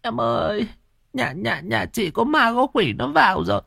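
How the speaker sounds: very high tearful wail; sobbing. A narrator's reading. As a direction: pour it out through sobs, high-pitched. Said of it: "khóc rưng rức".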